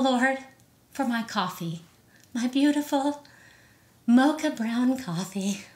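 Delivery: prayer. Shown as a demonstration. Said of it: "it's a prayer".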